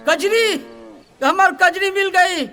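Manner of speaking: joyful excitement. Acted. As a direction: burst out with relief and delight. Lost goat found.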